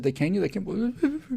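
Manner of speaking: high, slow breathless asking; pressing him for the news; eager boys asking. Retold or imitated. Schoolboys crowd the boy leaving the office asking about caning. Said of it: "everybody said".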